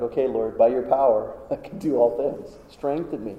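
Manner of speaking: soft, humble plea to the Lord; humble quiet prayer. Retold or imitated. Worried believer asks the Lord for strength, soft and humble. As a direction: pray it softly, leaning on God.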